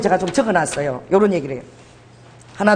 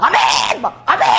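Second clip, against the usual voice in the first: mock amen shout; slower than usual. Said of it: "제가 막".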